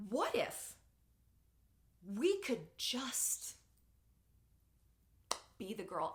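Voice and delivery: halting, drawn-out words with long pauses; getting teary. Real, not acted. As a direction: choke up slowly, stopping to hold back tears. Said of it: "I'm getting teary".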